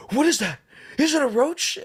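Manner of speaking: high, loud panicked question about the roach; freaking out. Retold or imitated. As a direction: mimic the girlfriend spotting a roach in alarm. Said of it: "she, like, freaks out".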